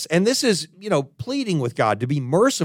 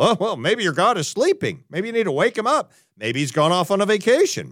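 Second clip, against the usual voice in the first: mocking taunt; 4 semitones higher than usual. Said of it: "taunting the prophets of Baal".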